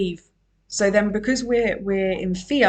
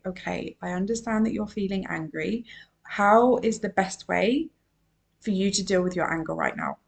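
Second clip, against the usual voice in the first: calm parent; 3 dB quieter than usual. Retold or imitated. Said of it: "if our parents would have said".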